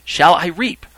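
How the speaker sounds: high, loud question; calling out. Acted. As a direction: put it loudly to the crowd. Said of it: "Again, a second time".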